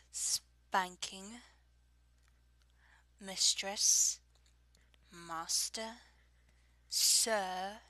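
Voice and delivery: put-on English accent, words spaced out; fake British accent. Shown as a demonstration. Reading a word list for an accent challenge, fake British accent. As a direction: take each phrase deliberately in a fake British accent. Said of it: "fake British accent, fake English accent".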